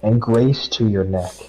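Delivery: slow, measured Bible reading; steady devotional read; scripture reading. Acted. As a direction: read it out like a verse at church. Reads Proverbs aloud.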